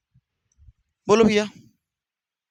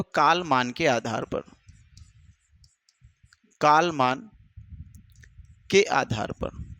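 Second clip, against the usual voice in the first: 1 slow dictation; 5 semitones lower, slower than usual. Shown as a demonstration.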